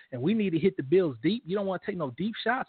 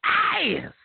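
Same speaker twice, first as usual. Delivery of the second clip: slow, drawn-out hype shout; mock award announcement; 5 semitones higher, slower than usual. Host to co-host, shouting out his award like an announcer. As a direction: belt the award name like a ring announcer.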